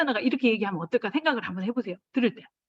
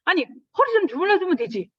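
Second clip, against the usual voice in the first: high, loud exasperated protest; hurt, rising indignation; indignant retort; 9 semitones higher, 6 dB louder than usual. Retold or imitated. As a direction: snap back, offended and fed up. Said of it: "속에서 화가 나거든요".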